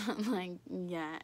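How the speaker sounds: laughing through the answer. Retold or imitated. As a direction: confirm it while giggling. Laughing while confirming pregnancy.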